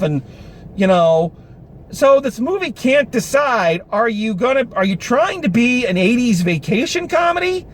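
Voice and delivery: ordinary delivery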